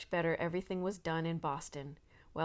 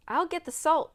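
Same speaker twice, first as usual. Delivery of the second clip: much higher and louder shout; 10 semitones higher, 9 dB louder than usual. A narrator's reading. Boy shouting as he races to the barn. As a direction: call it out eagerly. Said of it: "shouted Warren".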